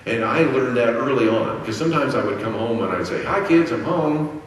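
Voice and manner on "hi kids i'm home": calling out. Retold or imitated. Calling to kids watching TV.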